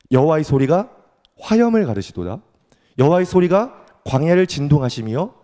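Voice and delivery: formal, declamatory reading of scripture; psalm reading. Acted. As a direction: proclaim the psalm phrase by phrase. Reads psalm aloud. (힘 있게 선포하듯 시편 낭독)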